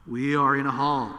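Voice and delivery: cheap tinny spring reverb. Shown as a demonstration. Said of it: "sounds like a spring reverb from a cheap Fender amplifier".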